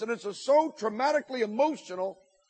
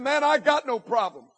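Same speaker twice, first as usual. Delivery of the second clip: higher-pitched retort, only mildly raised; retold yell back; 5 semitones higher than usual. Angry senior answering the speaker, mildly yelling back. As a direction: throw it back defensively, a contained mock yell. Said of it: "he yelled back and said".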